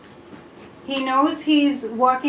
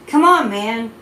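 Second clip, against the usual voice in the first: a loose, louder take on Biden's folksy "come on, man"; half-hearted Biden, pushing the catchphrase; bad Biden impression, lightly voiced; Joe Biden impression; 5 dB louder, slower than usual. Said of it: "That was my Joe Biden impression".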